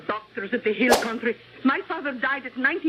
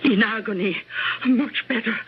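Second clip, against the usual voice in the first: cold menace; 5 semitones lower than usual. Acted. Cook reveals slow poison plot.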